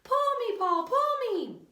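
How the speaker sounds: high, pleading little voice, slow on the second pull; tiny pigtail voice. A narrator's reading. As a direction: coax him like a tiny tempting voice. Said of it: "a little voice come from the pigtail".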